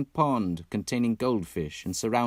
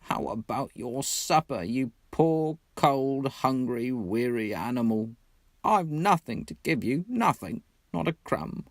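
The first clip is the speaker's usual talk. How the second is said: despairing lament; 4 semitones higher than usual. Acted. Mole despairs over supper.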